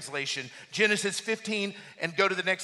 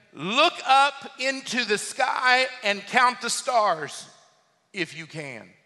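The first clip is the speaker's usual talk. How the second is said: sarcastic God; 4 semitones higher, 5 dB louder, slower than usual. Acted. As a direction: issue a slow dare, tossing off the last words. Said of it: "Can you hear the sarcasm in God's voice?".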